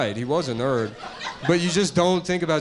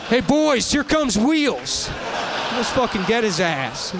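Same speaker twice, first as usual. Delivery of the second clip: jock bully voice; 7 semitones higher, slower than usual. Retold or imitated. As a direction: jeer like a letterman bully. Jock bullies mocking Hawking.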